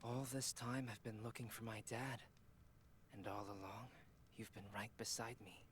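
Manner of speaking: flat, emotionless line delivery; bad acting. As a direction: read it with no feeling at all. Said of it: "No emotion whatsoever".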